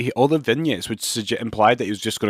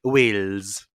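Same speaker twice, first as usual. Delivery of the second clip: Welsh accent; 4 semitones lower than usual. Shown as a demonstration. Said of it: "The only word I can say in a convincing Welsh accent".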